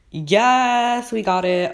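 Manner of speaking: high, drawn-out "yes"; triumphant cheer. Real, not acted. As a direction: cheer with sudden relief. Swap agreed, gets the griffin.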